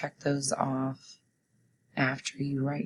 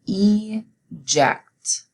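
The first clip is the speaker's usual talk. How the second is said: eject said higher and louder, crisp; emphatic test word; 4 semitones higher, 6 dB louder than usual. Shown as a demonstration. Teacher calling out the spelling word, emphatic. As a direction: call out eject clearly to class. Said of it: "Say it with me".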